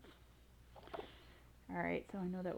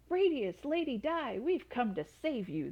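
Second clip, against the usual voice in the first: higher, louder hail, slowing at the end; knights shouting; 4 semitones higher, 3 dB louder than usual. Acted. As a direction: heroic rescuers calling out. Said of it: "they shouted".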